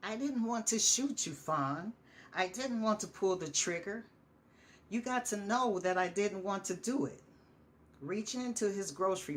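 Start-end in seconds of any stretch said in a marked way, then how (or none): 0.0-7.2 raised, pleading cry, higher and louder; tearful shout. Acted. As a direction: shout it while fighting back tears. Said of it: "He shouts".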